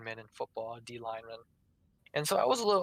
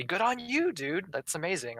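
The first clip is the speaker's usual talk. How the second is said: genuine praise; 6 semitones higher than usual. Shown as a demonstration. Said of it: "that's why I'd say".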